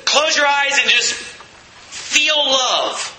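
mock dreamy advice. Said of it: "Did He say".

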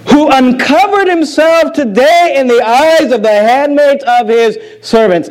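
mock condescending. Wife scolding David for dancing, slow and condescending. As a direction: draw out the scorn on "uncovered". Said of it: "she responds in a very condescending".

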